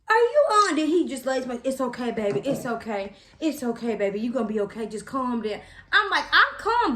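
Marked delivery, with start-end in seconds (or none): 0.1-0.8 high, loud disbelief; shocked outburst. Retold or imitated. Mother confronting boyfriend during epidural, shocked high outburst. 1.6-5.6 put-on soothing boyfriend. Boyfriend soothing her, acted out. 6.3-6.9 high, loud protest; indignant retort. Retold or imitated. Patient answering boyfriend's calm down, indignant high retort. Snapping back at boyfriend, acted out.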